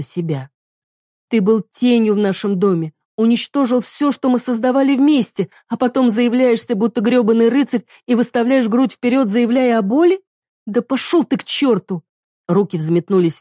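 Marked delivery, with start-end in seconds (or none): 1.3-12.0 higher, louder angry tirade; wife raging at the husband; furious reproach. Acted. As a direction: build to telling him off. Heroine rages at him.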